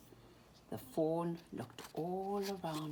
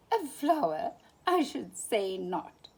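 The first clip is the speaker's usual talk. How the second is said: surprised; 5 semitones higher, 5 dB louder than usual. A narrator's reading. Thumper amused at mistake.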